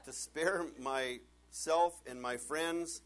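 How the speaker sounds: slow, loud, laughing through the words. Real, not acted. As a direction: push it out still laughing. After laughing fit.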